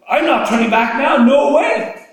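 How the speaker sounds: loud, high, resolute; determined mother. Retold or imitated. Desperate mother pushing toward Jesus, loud and resolute. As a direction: refuse to turn back. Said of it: "and she's like".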